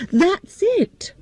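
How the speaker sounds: high whispered eureka; excited whisper. Acted. Girl hitting on her idea, whispering. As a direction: breathe it out as the idea lands.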